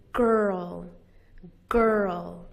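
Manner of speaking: put-on "girl" said carefully with a full er; stressed er sound. Shown as a demonstration. Teacher repeating girl to show the er, stressed vocalic R. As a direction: lean on the er in "girl". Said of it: "It's the er sound".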